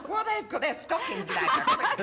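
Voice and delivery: words squeezed out mid-laugh, high; giggling helplessly as he speaks; laughing through words. Real, not acted. Panelist cracking up at his own joke, laughing.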